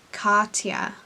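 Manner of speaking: "Cartier" in an American accent; put-on American vowels on "Cartier"; American pronunciation. Shown as a demonstration. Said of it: "say it like Cartier, because that's American".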